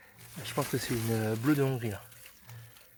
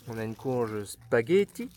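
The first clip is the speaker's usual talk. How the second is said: lightly put-on Italian accent; slower than usual. Gardener showing off the squash varieties to viewers, mock Italian accent. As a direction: say it slowly with a playful Italian accent. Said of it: "Vous avez vu mon accent italien".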